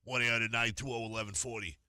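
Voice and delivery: lightly voiced smoker with a mouthful of cigarettes; hammed-up radio phone-number read; mock smoker lady. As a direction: play the chain-smoking caricature. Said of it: "I got, like, ten smokes".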